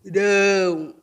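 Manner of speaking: "rão" alone, long and drawn out; isolated stressed syllable. Shown as a demonstration. Teacher picking out the last syllable, lengthened "rão". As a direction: stretch "rão" as the tonic syllable. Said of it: "última sílaba".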